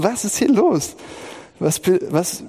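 thrown, grasping for sense; bewildered alarm. Retold or imitated. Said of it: "Ich dachte".

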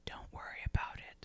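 hushed, secretive whisper; very soft, evasive brush-off; furtive. Acted. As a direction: whisper it to dodge the question. Acted furtive answer about matches.

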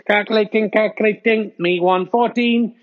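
lightly voiced robot announcer. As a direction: read the scores like a machine calculating. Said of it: "current scores from Robot Voice".

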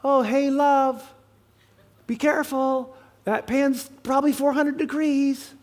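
husband gently warning wife about a hot pan; gentle. Retold or imitated. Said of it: "I'm not gonna go".

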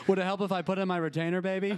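fast, high mock come-on; mock seductive. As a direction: play a cheesy seducer. Seductive joke to cohost.

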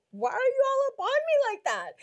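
high, loud challenge breaking into laughter; laughing mock outburst. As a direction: confront him while cracking up. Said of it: "I said".

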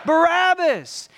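slow, loud, high shouted name; crowd shout. Acted. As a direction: call the name from far below. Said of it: "And you hear".

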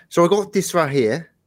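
put-on traditional British accent; American attempting a London-style British accent. Shown as a demonstration. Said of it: "Let me do a number of British accents".

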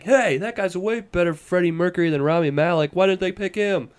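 high-pitched complaining viewer; hammed-up disbelief; mock indignation. Acting out an outraged viewer.

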